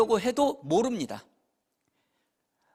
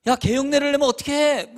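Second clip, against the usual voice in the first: higher, louder scolding parent; mock scolding; 7 semitones higher, 6 dB louder than usual. Pastor voicing a disapproving parent to the congregation, mock scolding. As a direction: snap at the parent for barking along.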